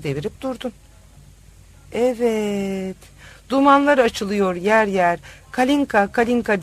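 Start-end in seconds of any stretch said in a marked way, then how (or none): 5.5-6.6 put-on drunken shouting. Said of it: "avaz avaz bağırdığımı".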